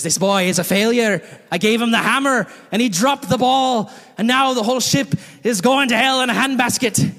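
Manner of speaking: a hint of a salty captain shaming a kid; scolding captain. Captain shaming the boy before his class, mock scolding.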